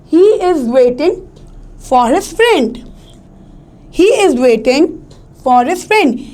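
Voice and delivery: "waiting" and "friend" stressed, phrase by phrase; tonic stress demo. Shown as a demonstration. Teacher reading the example for students, "waiting" and "friend" stressed. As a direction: lean on "waiting", pause, then stress "friend". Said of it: "जिस पे हम stress दे रहे हैं".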